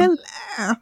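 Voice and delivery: high, plummy Queen's English hello; posh British accent. Retold or imitated. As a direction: send up a posh British barrister. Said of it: "The plummy, like, very much the Queen's English".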